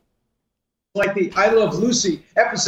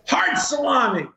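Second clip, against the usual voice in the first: higher-pitched mock insult, drawn and falling; childhood insult; 6 semitones higher than usual. Guest quoting his childhood comeback, as a mock insult. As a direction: throw it out as a playful brush-off. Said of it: "if you wanted to insult somebody".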